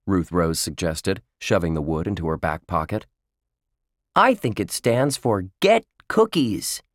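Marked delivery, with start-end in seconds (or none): 4.2-6.8 mild, higher-pitched yell; excited yell. A narrator's reading. Josh yells his cookie guess to his friends, mild yell. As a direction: call it out as a young boy. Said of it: "Josh yelled".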